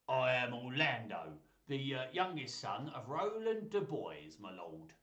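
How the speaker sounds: put-on slow, proud Cockney-ish young man; Cockney accent. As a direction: announce yourself in loose Cockney. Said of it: "in a kind of Cockney accent".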